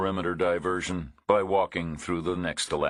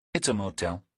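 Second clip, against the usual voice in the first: woman's dry voice; 3 semitones higher than usual. A narrator's reading. Narrator voices the waiting woman.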